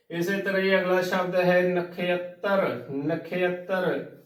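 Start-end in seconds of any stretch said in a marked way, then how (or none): 1.6-4.1 "ਨਖੇਤਰ" drawn out as na-khe-at-tar; correct pronunciation. Shown as a demonstration. Teacher showing learners the word, slow model pronunciation. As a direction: say "ਨਖੇਤਰ" slowly with a glide after khe. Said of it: "ਇਸ ਦਾ ਸ਼ੁੱਧ ਉਚਾਰਨ ਹੈ".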